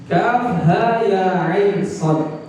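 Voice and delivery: slow, drawn-out recited letter names; Quran recitation. Shown as a demonstration. Preacher opens surah Maryam for listeners, slow recitation. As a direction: stretch each letter name out in one measured chant.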